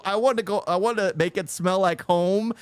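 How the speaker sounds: mocking imitation of speaker. Reactor mimics the man at the meeting, mocking imitation. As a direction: lightly mimic the man's request. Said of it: "and is just like".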